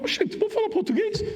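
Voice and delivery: high and excited, delighted surprise; excited northeastern. Retold or imitated. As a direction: burst out gladly in northeastern style. Descobre que ela é brasileira. (empolgado e agudo, com jeito nordestino)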